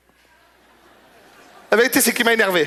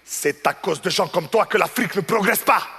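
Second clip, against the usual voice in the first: scolding customer; 3 semitones higher than usual. Retold or imitated.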